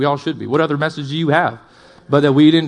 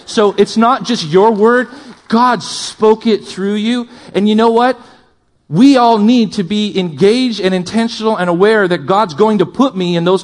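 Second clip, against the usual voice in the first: impassioned preaching; 5 semitones higher, 4 dB louder than usual. Real, not acted. Preacher urging the church to be engaged, impassioned. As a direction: drive each phrase home, pitched up. Preacher drives the point home.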